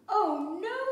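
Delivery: high, loud exasperated cry. A narrator's reading. Mister Bear kept awake, loud exasperated cry. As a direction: wail it in frustration. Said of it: "said Mister Bear".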